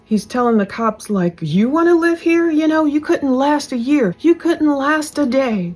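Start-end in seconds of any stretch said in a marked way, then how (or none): 1.4-5.7 imitating an angry rant in a higher pitch; going off. Husband going off at the cops, mock indignant rant. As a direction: retell his outburst, pitched up and indignant. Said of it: "Croy is going off".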